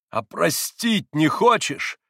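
slow, loud, high accusing cry; frantic reproach. A narrator's reading. Mitya reproaches Grushenka, crying out madly. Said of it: "прокричал Митя Грушеньке с безумным упрёком".

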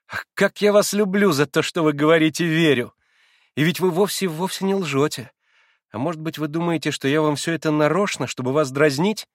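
put-on a wilful girl teasing; lightly voiced excitable girl; Liza's girlish voice. A narrator's reading.

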